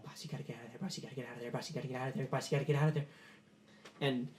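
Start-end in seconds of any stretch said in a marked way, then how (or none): 0.0-3.1 urgent henchman warning. Acted. Henchman warning the boss to get out, urgent. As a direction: repeat it urgently, swelling each time.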